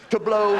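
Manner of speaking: "to blow" hit hard and held; stressed punchline repeat. Shown as a demonstration. Repeating the joke word to the audience, stressed. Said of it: "repeats "to blow" as a punchline".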